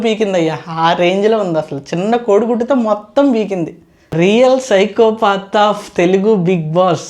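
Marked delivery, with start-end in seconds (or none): 4.1-7.0 dramatic trailer voice. Acted. Dramatic closing caption line.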